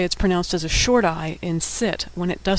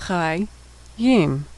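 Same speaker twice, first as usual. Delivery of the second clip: syllable by syllable. Shown as a demonstration. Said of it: "final mem".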